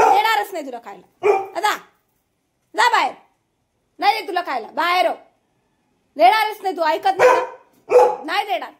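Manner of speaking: high-pitched, insistent refusal; cross scolding. Real, not acted. Threatening to withhold the food. (चिडून रागावत)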